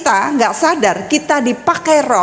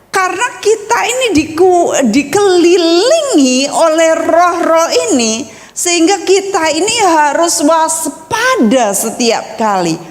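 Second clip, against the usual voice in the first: weighty preacher's cadence; emphatic preaching; 4 semitones higher than usual. Real, not acted. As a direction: exhort the congregation with firm conviction.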